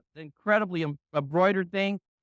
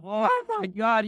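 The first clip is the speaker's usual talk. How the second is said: stunned oh my God; slower than usual. Retold or imitated. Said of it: "I'd be practically dying".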